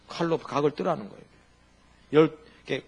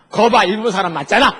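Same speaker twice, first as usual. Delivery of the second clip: louder, laughing told-you-so; laughing Seoul man; 5 semitones higher, 11 dB louder than usual. Retold or imitated. Seoul man tells his friend he was right, laughing. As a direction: crow through laughter. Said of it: "서울 사람 와가지고 친구한테".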